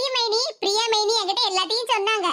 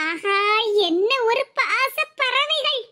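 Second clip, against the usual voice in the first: slow, drawn-out teasing aside; mock admiration; much slower than usual. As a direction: marvel theatrically at the lovebirds. Onlooker remarks on gushing reunion.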